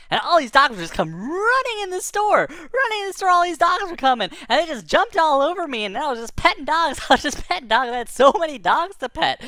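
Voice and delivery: high, breathless-paced rush of delight; overjoyed excitement. Retold or imitated. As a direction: tell it bursting with excitement. Excited account of dogs arriving.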